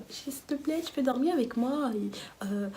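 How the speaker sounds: soft, small imitated begging; cute pleading. Asking friend to let her sleep nearby, cute pleading. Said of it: "J'étais trop comme ça".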